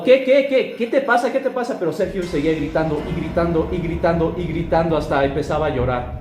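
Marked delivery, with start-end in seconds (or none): 0.0-1.8 high, loud scared questions; startled, shout it out high; frightened Jacobo, high and loud. A narrator's reading.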